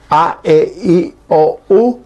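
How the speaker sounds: "A, E, I, O, U" each vowel sung through the nose; nasal vowels. Shown as a demonstration. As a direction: hum every vowel out through the nose, Guaraní style. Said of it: "encontraron cinco vocales nasales".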